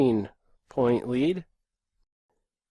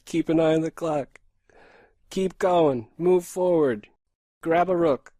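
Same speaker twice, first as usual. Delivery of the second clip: intense focus voice; 3 semitones higher, 4 dB louder than usual. Shown as a demonstration. Streamer to chat demonstrating his in-game voice, intense and pushed. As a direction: show the tunnel vision of a timed game. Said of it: "when I'm not talking like that".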